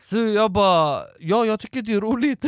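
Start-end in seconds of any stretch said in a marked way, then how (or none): 1.2-2.4 raised, louder imitation of his own answer; acted nervous reply. Storyteller answering whether he finds it funny, mock-nervous reply. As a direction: answer back with mock nerve, voice lifted.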